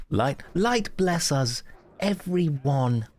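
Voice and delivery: drawn-out Australian blessing; Aussie accent. Pretend. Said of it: "You sound like an Aussie".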